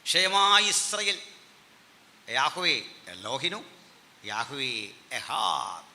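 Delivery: phrase by phrase, with pauses; drawn-out Hebrew recitation for learners; slow model recitation. Shown as a demonstration. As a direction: recite slowly so the class can follow. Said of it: "ഒന്നുകൂടെ പറയാൻ പോവാണ്".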